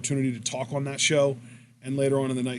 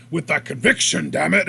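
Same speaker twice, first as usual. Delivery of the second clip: louder, emphatic demonstration; projecting with conviction; 6 dB louder than usual. Shown as a demonstration. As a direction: push the voice out forcefully, hitting it hard. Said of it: "he really projects his shit".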